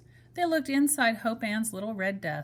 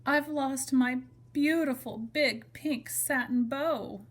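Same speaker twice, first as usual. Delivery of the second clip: sad bunny; 5 semitones higher, slower than usual. Acted. Bunny Blue tells Blackie.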